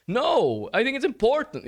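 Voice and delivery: loud, high-pitched mock insistence; imitating aggressive tone. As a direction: burst in like a heated teammate. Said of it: "that is not a normal tone of voice".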